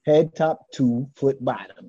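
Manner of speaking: slow, each word set apart; slow careful correction. Shown as a demonstration. Host correcting the show name, slow and deliberate. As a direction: say the name slowly so it sticks. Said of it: "I always get it wrong".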